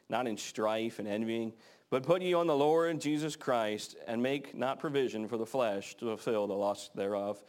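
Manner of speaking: measured, solemn Bible reading; scripture reading. Acted. Preacher reading Romans aloud to the congregation, solemn and measured.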